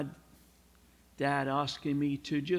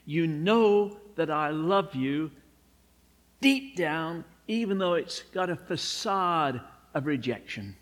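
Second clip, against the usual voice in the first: pleading; 4 dB louder than usual. Retold or imitated. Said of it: "I give up".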